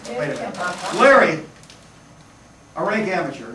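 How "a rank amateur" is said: "rank" leaned on lightly within the phrase; stress on RANK. Shown as a demonstration. Magician teases his amateur volunteer, stress on "rank". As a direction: give the word "rank" deliberate weight. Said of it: "I want to emphasize the word rank".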